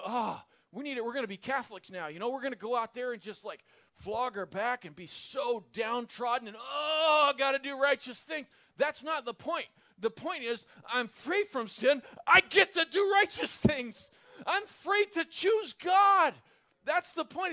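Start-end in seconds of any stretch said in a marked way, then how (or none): 0.0-8.5 hammed-up self-pity building to a shout; mock downtrodden believer. Preacher mocks gloomy religion, rising to a mock wail. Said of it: "I'm not telling you". 10.9-17.5 higher and louder, shouting with joy; excited. Real, not acted. Preacher to congregation, bursting with excited joy. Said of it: "I get kind of excited".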